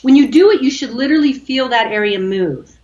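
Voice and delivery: usual speaking voice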